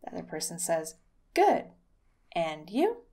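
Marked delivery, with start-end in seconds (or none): 1.3-3.0 stiff textbook "Good. And you?"; like a student reciting a textbook; textbook answer. Shown as a demonstration. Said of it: "We need to erase that from your vocabulary".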